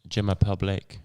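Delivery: jokey, hammed-up French accent on Je m'appelle Blake; bad French accent. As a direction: toss off a deliberately terrible French accent. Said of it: "That was the worst accent ever".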